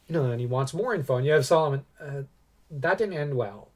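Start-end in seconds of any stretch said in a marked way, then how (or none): 2.0-3.7 sheepish. Retold or imitated. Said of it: "he says it a little sheepishly".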